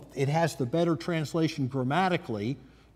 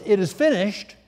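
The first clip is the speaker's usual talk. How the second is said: a raised, ringing declaration, louder than the lines around it; loud cry; 5 semitones higher, 5 dB louder than usual. Retold or imitated. Preacher voicing Jesus's loud cry from the cross. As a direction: cry it out to everyone. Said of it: "cry out with a loud voice".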